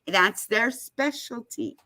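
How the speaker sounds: whispered aside. Real, not acted. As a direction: hush it like a secret. Aside about the law firm.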